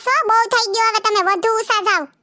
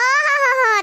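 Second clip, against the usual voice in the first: mocking oho; 4 semitones higher, much slower than usual. Neighbours quarrel over parked bikes.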